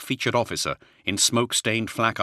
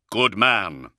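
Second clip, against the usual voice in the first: proudly; 2 semitones higher, 5 dB louder than usual. Acted. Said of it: "Luther said proudly".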